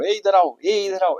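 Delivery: high, loud hey come here; calling someone over. Shown as a demonstration. Teacher mimics calling a person, loud and high. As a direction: call out across the room to fetch someone. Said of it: "ऐसे नहीं बोलते".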